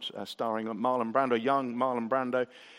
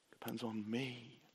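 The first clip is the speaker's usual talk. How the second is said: very soft, low voice of the Lord; quietly reassuring, as if God is speaking; gentle reassurance; 4 semitones lower, 14 dB quieter than usual. Retold or imitated. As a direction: drop right down to a hushed, tender assurance. Voicing the Lord's reassurance.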